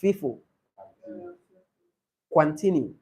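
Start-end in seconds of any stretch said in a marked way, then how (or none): 0.0-0.4 "fifo" with F in place of each P; P turned to F. Shown as a demonstration. Teacher shows mother tongue interference, "fifo" with F for P. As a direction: demonstrate the P-to-F swap in "fifo". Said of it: "they have F".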